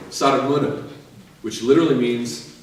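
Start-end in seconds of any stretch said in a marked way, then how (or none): 0.1-0.8 "Sar mână" said in Romanian; Romanian greeting. Shown as a demonstration. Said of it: "They say".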